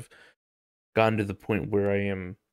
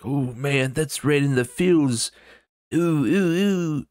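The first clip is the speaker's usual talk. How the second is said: mock moved reaction; 5 semitones higher, slower than usual. Mock reaction to an impactful video.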